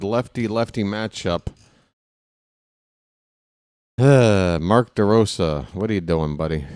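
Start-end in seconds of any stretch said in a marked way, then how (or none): 4.0-6.7 a let-down groan at the manager; exasperated sigh. Real, not acted. Exasperated at manager's pitching move.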